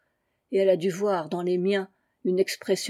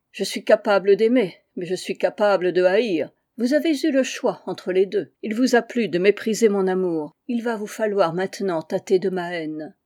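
louder, vengeful threats; angry; 3 dB louder than usual. Acted. Woman threatens the narrator, loud and angry. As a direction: promise hatred with force. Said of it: "avec une colère égale à la mienne".

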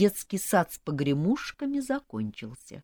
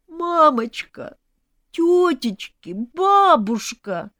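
loud, high, long-drawn wails; frantic calling; 11 semitones higher, 8 dB louder, much slower than usual. A narrator's reading. Blind groom seeking his womenfolk, frantic. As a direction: call out to each one, stretching every word. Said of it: "метался наш слепой герой".

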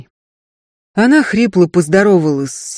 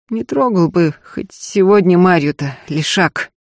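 hoarse grumble. Acted. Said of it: "сипло проворчала".

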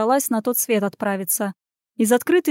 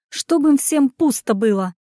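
angry; 3 semitones higher than usual. Acted. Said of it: "злилась она".

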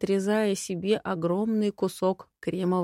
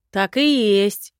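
slow, loud sigh of agreement; drawn-out sighing confirmation; 8 dB louder, slower than usual. A narrator's reading. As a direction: stretch it out like a heavy sigh. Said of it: "вздохнул Котинус".

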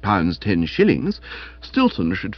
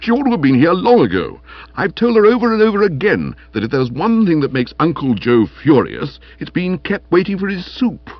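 quick, louder, higher fretting; irritable grumble, emphatic and high; peevish; 8 semitones higher, 4 dB louder than usual. Acted. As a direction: complain in exasperation about a latecomer. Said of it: "he said peevishly".

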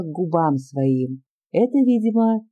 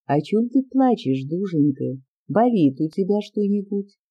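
gentle; 2 semitones higher than usual. Acted. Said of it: "кротким, ласковым голосом".

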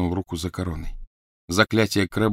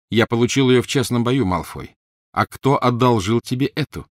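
put-on louder, higher young hero's taunt; taunting Harry; 4 semitones higher, 5 dB louder than usual. Harry taunts Malfoy over the stolen wand, louder and higher. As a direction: rub the win in Malfoy's face.

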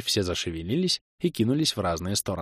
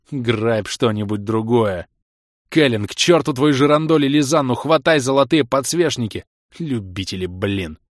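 shouted orders; 3 semitones higher, 4 dB louder than usual. Acted.

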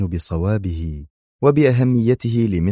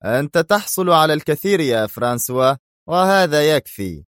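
stern; 7 semitones higher than usual. Acted. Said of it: "قال شيمون في صرامة".

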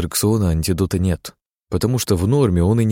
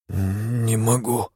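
slow, softer moan; 3 semitones higher, 4 dB quieter, much slower than usual. A narrator's reading. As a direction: drag it out weakly, groaning. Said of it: "простонал он". (простонал, медленно и тихо)

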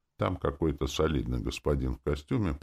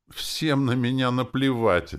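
higher, slow, hurt outcry; exclaimed; 9 semitones higher, 5 dB louder, slower than usual. A narrator's reading. Girl jumping from her chair, exclaiming. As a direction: cry it out as she jumps up. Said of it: "воскликнула она".

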